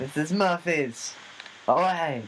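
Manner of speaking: high, slow haughty dismissal; pampered star rejecting the stout; diva dismissal. Pretend. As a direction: wave it off like a spoiled star. Playing diva.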